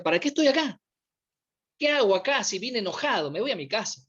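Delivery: mock grumble, starting high then dropping away; half-hearted angry muttering; annoyed grumble. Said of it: "venía enojadísimo".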